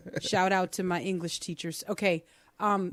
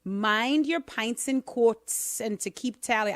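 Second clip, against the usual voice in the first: a light, slowed Irish lilt; mild Irish accent; 2 semitones higher than usual. Pretend. Host answering the caller in a mild Irish accent. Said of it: "I had to do it in an Irish accent".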